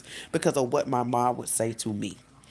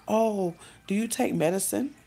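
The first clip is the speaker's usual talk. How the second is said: lightly higher, careful mom; a hint of a tiptoeing mother; careful mom question; 7 semitones higher than usual. Mom asking her daughter in the car, mild higher tiptoe. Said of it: "she was like".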